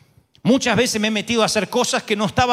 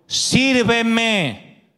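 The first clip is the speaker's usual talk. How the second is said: voice of God. Acted. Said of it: "me dijo".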